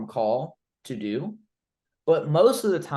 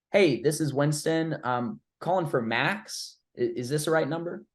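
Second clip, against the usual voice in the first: casual checking tone; 2 semitones higher than usual. Shown as a demonstration. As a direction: sound like you're just confirming a number. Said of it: "So you see my tone".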